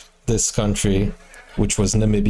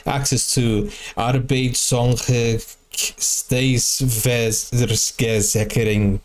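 mock applicant; much slower than usual. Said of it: "You're like, um".

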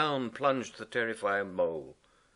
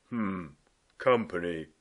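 mutter; 2 semitones lower than usual. Acted. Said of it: "he muttered".

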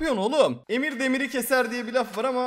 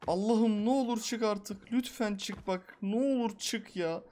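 slow, drawn-out begging; slow desperate plea to God; pleading; slower than usual. Real, not acted. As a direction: plead with the game, slowly. Begging the character to climb.

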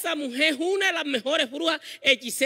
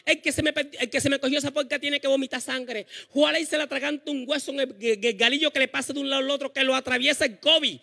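higher, heated curse from the mother; mother cursing; 3 semitones higher than usual. Retold or imitated. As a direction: curse the pig thief. Y comienza mami. (mami maldice al ladrón, en voz más aguda)

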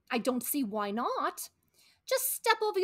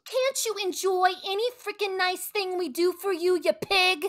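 exasperated scold; 4 semitones higher than usual. Acted. Wife scolding ungrateful husband.

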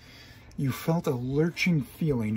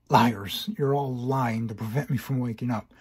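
angry shout; 5 dB louder than usual. Acted. Hero angrily yells at creatures.

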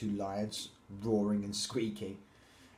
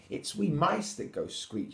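higher mouse voice; little mouse; 6 semitones higher than usual. A narrator's reading. Mouse telling the lion who squeaks, raised mouse voice. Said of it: "she said".

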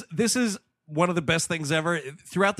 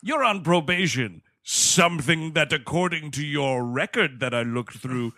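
catty dean; slower than usual. Retold or imitated. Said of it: "so fucking shitty and catty".

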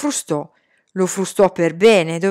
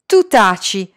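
retort; 3 semitones higher, 5 dB louder than usual. Acted. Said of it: "lo rimbeccò Salman".

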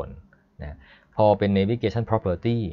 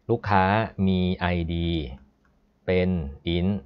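word-by-word reading with pauses between; reading code aloud. Shown as a demonstration. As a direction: read it out piece by piece, pausing. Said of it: "เวลาอ่าน อ่านงี้".

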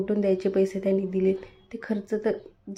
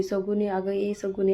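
calling out. Acted. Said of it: "आईच्या हाकून".

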